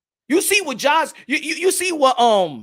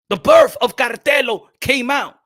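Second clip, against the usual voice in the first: dramatic announcement; 3 dB louder than usual. Acted. Announcing Canelo's alter ego dramatically.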